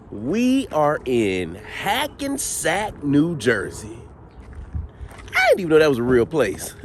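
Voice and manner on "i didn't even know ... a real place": excited rise in pitch; voice going up with excitement. Real, not acted. Host reacting to Hackensack being real, voice going up excitedly. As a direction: let the voice jump up, excited. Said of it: "my voice goes up".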